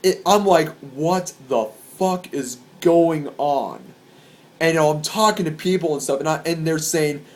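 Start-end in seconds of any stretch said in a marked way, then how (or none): 0.8-3.8 slow, word-by-word bewilderment; stunned disbelief. Retold or imitated. Concertgoer seeing police and dogs everywhere, stunned. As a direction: space the words out, dumbfounded.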